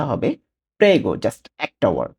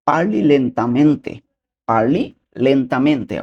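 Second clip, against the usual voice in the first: parli lentamente drawn out very slowly; slow demo; 3 semitones higher, 4 dB louder, much slower than usual. Shown as a demonstration. Teacher modelling parli lentamente very slowly for viewers. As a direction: spell out parli lentamente syllable by syllable. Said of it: "Italian ভাষায় সেটা হবে কি?".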